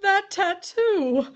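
slow, high, loud gasp of recognition; shocked recognition. Acted. Widow seeing her husband's body, shocked cry. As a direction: realize with horror it's him.

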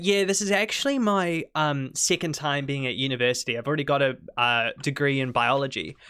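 imitating a southern New Zealand girl's thick Kiwi accent; mock strong Kiwi accent. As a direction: put on a broad Kiwi accent. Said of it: "she has a really strong Kiwi accent".

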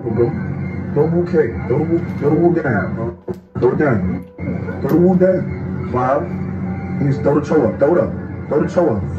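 hype shouting. Real, not acted. Cheering on a fighter.

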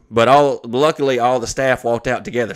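declaimed formal complaint, even and unbroken; email read-aloud. Acted. Venue complaining to the comedian's agent, formally read aloud. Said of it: "I'm gonna read the email".

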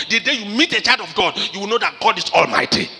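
booming pulpit declaration; preaching climax. Acted. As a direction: proclaim it with full force.

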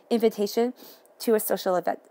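fighting off a sneeze mid-sentence; holding back a sneeze. Real, not acted. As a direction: talk while stifling a sneeze. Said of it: "I'm trying not to sneeze".

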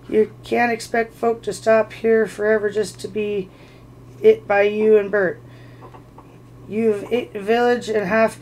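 a hint of a surly troll grousing; grumbling troll. Troll Tom to William, grousing in a lightly voiced troll voice.

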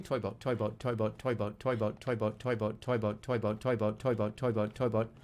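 low, even, evenly spaced repetition; tongue-twister drill. Pretend. Player drilling a tongue twister, rhythmic repetition. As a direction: chant it steadily on a loop.

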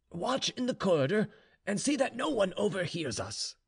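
lightly voiced general in command. A narrator's reading. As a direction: give the maid a firm instruction. General orders the maid out.

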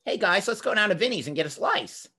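mock Bugs Bunny-ish New Jersey boy; twelve-year-old Jersey kid. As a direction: imitate your twelve-year-old self inviting friends for pizza. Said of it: "my speaking voice when I was twelve was".

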